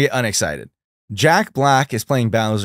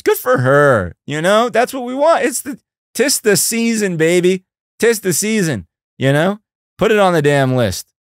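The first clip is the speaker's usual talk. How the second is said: excited cheering; 9 semitones higher, 3 dB louder than usual. Real, not acted. Cheering viewer's big gift.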